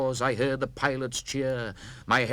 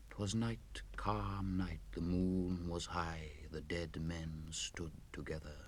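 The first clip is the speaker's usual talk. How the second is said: whisper; 4 semitones lower, 12 dB quieter than usual. A narrator's reading. Eerie night scene.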